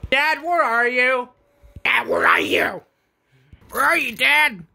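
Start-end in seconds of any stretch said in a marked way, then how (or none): 1.8-2.8 hushed whisper into the dark. Real, not acted. Son searching the dark room, whispering. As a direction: breathe it so nobody hears.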